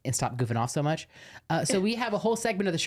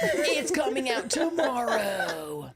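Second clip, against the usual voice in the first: hyped announcement; 9 semitones higher, slower than usual. Acted. Hyped announcement, high and slow.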